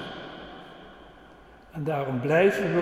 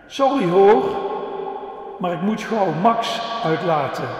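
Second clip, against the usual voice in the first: put-on hurried girl; 3 semitones higher, 6 dB louder than usual. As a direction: play a young girl in a hurry. Julia rushing past, apologizing.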